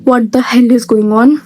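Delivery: slow, drawn-out exasperation; exasperated. Retold or imitated. To her late friend, slow exasperated disbelief. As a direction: let each word drag in disbelief.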